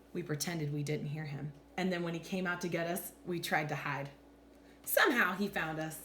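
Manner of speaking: animated picture-book narration with deliberate pauses; expressive, measured storytime voice; story read-aloud. A narrator's reading. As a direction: read to children, lifting and dropping the pitch for drama.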